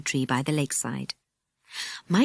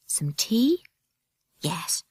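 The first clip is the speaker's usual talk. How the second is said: sneaky whisper; much slower than usual. A narrator's reading. Nora sneaking in larder.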